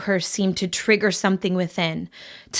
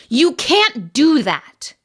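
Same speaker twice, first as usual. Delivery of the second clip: indignant; 7 semitones higher, 4 dB louder, slower than usual. Acted. Marin protesting the kept secret.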